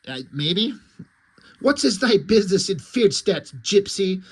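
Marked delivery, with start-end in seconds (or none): 1.6-4.2 lightly voiced stern nun; a hint of a nun's challenge; mock warrior nun. Warrior nun questions the gypsy girl, mock stern. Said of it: "the one warrior nun says".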